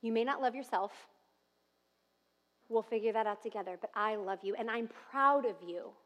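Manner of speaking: quiet loving reassurance; God's gentle voice. Pretend. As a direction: soothe a discouraged child, softly. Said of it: "Those are God's words".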